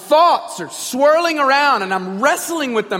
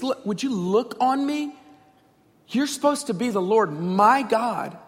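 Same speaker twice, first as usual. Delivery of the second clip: pleading. Acted. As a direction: plead with God, restrained. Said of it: "Finally, he's pleading".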